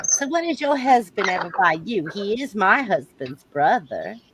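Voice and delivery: prying Southern belle; Southern accent. Acted. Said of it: "I like your Southern accent".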